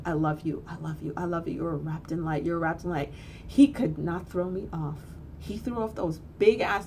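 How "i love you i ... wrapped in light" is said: softer, reassuring murmur; holding a struggling boy, softly repeating comfort; soothing repeat. Retold or imitated.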